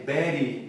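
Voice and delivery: very as berry with a tapped R; Spanish R. Shown as a demonstration. Teacher showing Spanish speakers' R, berry with a tap. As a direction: tap the R, BEH-ree. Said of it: "Ou esse R".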